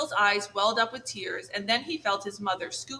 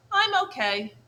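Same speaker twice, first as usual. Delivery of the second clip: sniffly gosling; 9 semitones higher, 4 dB louder than usual. Acted. Gosling answers after crying.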